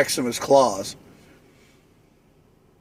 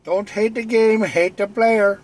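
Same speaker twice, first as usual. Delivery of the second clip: higher swagger catchphrase voice; put-on player voice; 6 semitones higher than usual. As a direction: deliver it like a cocky player.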